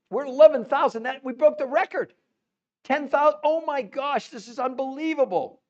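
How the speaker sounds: high and loud, record just broken; real disbelieving delight; thrilled. Real, not acted. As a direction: shout the news, overjoyed.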